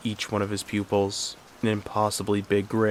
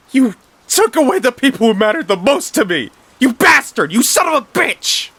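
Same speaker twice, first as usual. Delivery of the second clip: high, very loud screaming curses; furious scream; 8 dB louder than usual. Acted. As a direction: hurl it at him through grief. Grieving brother screams at killer.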